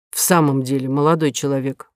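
put-on a mild scolding from an old lady; reproachful. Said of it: "с укором произнесла Ксения Михайловна".

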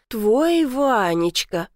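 slow, teasing echo of grandma; mock her doting tone; mocking mimicry. Granddaughter mockingly echoing grandma's doting name for him. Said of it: "мысленно передразнила я".

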